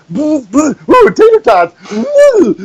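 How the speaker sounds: very high cooing "ooh"; mock dazed cooing; moth lured by light. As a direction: coo like something drawn to a lamp.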